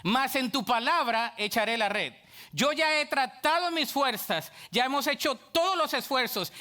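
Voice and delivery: ordinary talk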